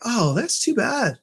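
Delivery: high, lilting commiseration; retold sympathy. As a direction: sympathize in a lifted voice. Retold sympathy for moping bellman.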